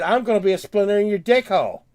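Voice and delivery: fast, loud defiant threat; retold defiant threat. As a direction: spit it back at them, fast and loud. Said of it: "I went in there and said".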